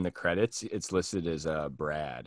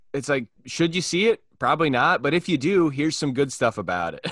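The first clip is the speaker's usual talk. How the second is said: bright, higher, louder reviewer pitch; upbeat pitch; 4 semitones higher, 3 dB louder than usual. Pretend. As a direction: sell it like a cheerful critic. Pitching his positive review site.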